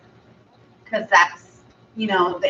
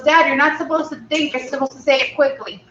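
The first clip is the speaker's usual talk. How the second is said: higher, fast, mock-scolding kid; impatient little girl; 4 semitones higher, faster than usual. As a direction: chide him like a bossy child. Daughter scolds dad.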